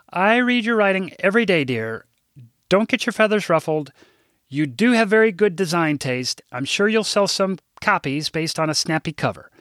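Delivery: a mild hint of a prim, fussy secretary; lightly played prim office manager; older secretary. Narrator voices Rose.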